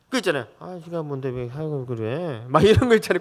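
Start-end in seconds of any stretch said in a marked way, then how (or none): 0.6-2.4 mock mutter under the breath, softer and slow; muttered grumble. Father imitates mother's half-audible complaint, muttered. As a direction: grumble meant to be half heard. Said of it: "들리도록 말을 하면서 안 들리게끔".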